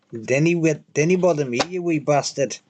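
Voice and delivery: lightly put-on Scottish accent; jokey Scots in short falling phrases; mock Scottish accent. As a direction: take the piss with a Scottish lilt. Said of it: "taking the piss out of Scottish".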